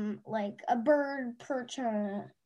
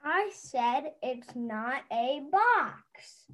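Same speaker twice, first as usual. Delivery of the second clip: put-on insistent kid; 3 dB quieter, slower than usual. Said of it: "he's gonna read the kid voice".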